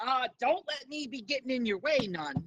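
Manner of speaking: lightly voiced Cajun accent; courteous stranger with a hint of Cajun. Bone Man asks travellers about their messages, light Cajun accent. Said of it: "I was gonna do a Cajun accent for him".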